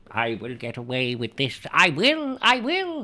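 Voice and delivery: put-on determined prisoner in an old-fashioned English accent. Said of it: "I've given him an old-fashioned accent there".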